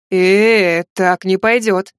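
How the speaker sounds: loud, slow protest. Acted. Litvinov objects to her killer stare, loud and slow. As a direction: push back hard, drawn out. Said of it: "запротестовал Литвинов".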